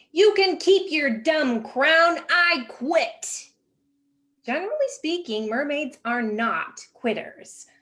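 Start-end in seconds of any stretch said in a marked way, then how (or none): 0.1-3.5 high, loud frustrated shout. Acted. Mermaid shouting into the pit that she quits. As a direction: yell it down into the pit, fed up. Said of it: "She shouted into the pit".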